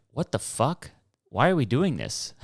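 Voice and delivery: mock the wife's shocked complaint; what the hell did we just do; shocked outburst. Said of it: "she was like".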